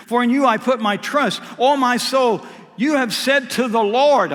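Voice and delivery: loud, high proclaiming of the verse; preacher crying the verse out; preaching shout. Acted. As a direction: build to a shout on Lord. Reads the verse, building up.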